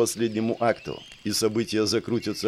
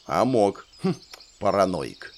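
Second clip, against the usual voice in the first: фыркая; 2 semitones lower than usual. Acted. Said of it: "фыркнула Мия".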